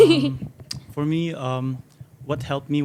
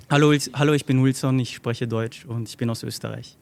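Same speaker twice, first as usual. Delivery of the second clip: speaking German. Shown as a demonstration.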